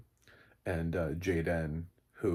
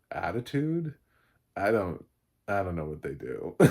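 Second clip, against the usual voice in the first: normal talking voice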